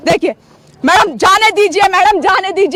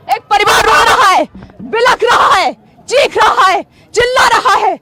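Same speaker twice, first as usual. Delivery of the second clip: raised, insistent listing, phrase by phrase; impassioned outcry; 2 semitones higher than usual. Real, not acted. Reporter tells police a family is weeping, impassioned outcry. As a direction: hammer each phrase home with real urgency.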